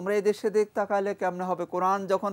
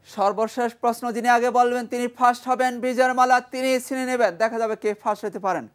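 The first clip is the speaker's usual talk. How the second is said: raised, louder game-show build-up; excited quiz announcement; 5 semitones higher, 5 dB louder than usual. Real, not acted. Teacher announcing the final quiz question to pupils, excited. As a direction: hype up the last question for the class.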